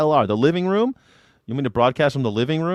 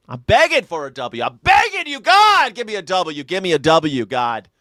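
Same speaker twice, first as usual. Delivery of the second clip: mock pleading; 6 semitones higher, 4 dB louder than usual. Begging God for a win.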